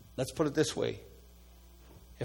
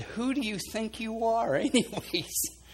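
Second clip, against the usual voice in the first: stern rebuke; 9 semitones higher, slower than usual. Retold or imitated. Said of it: "something raised up in me".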